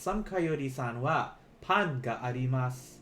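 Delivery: slow, careful model sentence; careful unhurried voice. Shown as a demonstration. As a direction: say it slowly so they can repeat. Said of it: "let me say this slowly".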